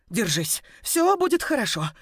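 high, breaking reassurance. Acted. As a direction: comfort her while your own voice cracks. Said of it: "бормотала я срывающимся голосом".

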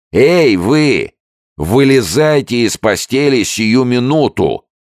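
loud, high shouted command; shouting again. A narrator's reading. Sergeant shouts at the refusing soldier, loud. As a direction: yell it at the top of your lungs. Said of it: "снова закричал сержант".

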